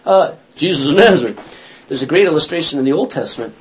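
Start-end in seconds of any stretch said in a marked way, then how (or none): 0.1-1.4 sheepish repeat. Retold or imitated. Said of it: "and they say".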